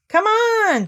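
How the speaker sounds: high, loud call to the others. A narrator's reading. Pooh and Piglet calling to the others, loud call. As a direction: shout it forward. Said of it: "called Pooh and Piglet".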